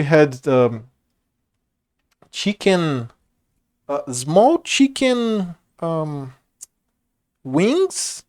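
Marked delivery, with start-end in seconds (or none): 3.9-5.5 small drawn out slowly and leaned on; stress on small. Real, not acted. Telling viewers about the food, leaning on small. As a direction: stretch out small to show how tiny. Describing small chicken pieces.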